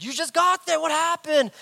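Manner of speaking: high, loud alarmed demand; Virginia. Retold or imitated. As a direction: imitate a wife demanding answers. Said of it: "and Virginia's like".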